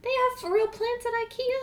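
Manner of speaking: high, slow disbelief; stunned question, drawn out; surprised. Real, not acted. Amazed at the news.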